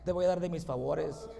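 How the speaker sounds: low, soft voice of God; God speaking mercifully. Acted. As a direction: grant mercy quietly and gently. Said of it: "Mas sin en cambio te dijo".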